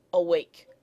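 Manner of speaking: "awake" stressed on WAKE; light first syllable, weight on the end of "awake"; iambic stress. Shown as a demonstration. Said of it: "An iamb like".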